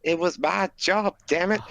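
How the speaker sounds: lightly voiced southern drawl; a hint of a Southern accent. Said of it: "Why'd I do a southern accent".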